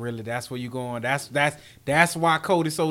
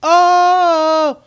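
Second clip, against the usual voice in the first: much higher and louder, drawn out; mock loud quote; 11 semitones higher, 10 dB louder, much slower than usual. Cohost voicing the critics, mock loud taunt. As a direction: belt the critics' taunt slowly.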